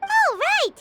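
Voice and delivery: high, bright-eyed oh right; sudden surprised oh right; surprised realisation. Acted. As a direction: catch on all at once.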